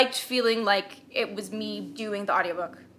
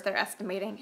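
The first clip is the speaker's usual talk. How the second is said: whispering; 7 dB quieter than usual. Real, not acted. Whispered aside.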